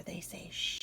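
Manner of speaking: sh hissed, unvoiced, soft; sh sound. Shown as a demonstration. Teacher showing the sh sound. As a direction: give a soft shushing sh. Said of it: "when the S and the H are together".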